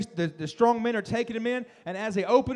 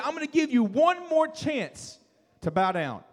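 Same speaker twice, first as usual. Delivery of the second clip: king's final warning; 4 semitones higher than usual. Acted.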